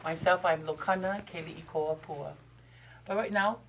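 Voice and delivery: normal talking voice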